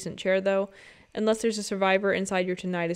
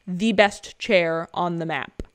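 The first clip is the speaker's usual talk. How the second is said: slow hype; 3 semitones lower, 3 dB louder, slower than usual. Pretend. Hyping the best chair.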